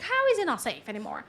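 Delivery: quick, incredulous question as an upset lamb; lightly voiced protesting lamb. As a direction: act out a lamb arguing back. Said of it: "and the lamb".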